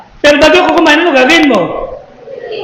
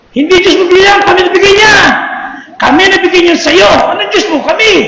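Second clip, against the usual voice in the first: mocking jeer; 3 semitones higher than usual. Bullies taunting the praying man that they gave the food, jeering. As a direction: jeer at him, gloating.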